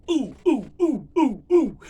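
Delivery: loud, high, eager "ooh, ooh"; rapid-fire high-pitched sitcom hooting; Arnold Horshack. Acted. Mimicking Horshack from Welcome Back, Kotter, loud excited oohs. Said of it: "Y'all remember Arnold Horshack".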